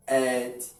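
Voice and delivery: "advantage" broken into "ad, van, tij" with pauses; teacher measuring out "advantage" in separate pieces; syllable by syllable. Shown as a demonstration. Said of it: "we stress the second syllable".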